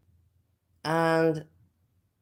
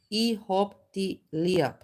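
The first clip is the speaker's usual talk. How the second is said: clipped Austrian; slower than usual. Shown as a demonstration. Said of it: "It's just cut up".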